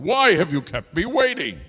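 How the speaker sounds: high-pitched, indignant king; angry demand. Acted. King confronts the late hoopoe, demanding angrily. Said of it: "King Solomon demanded".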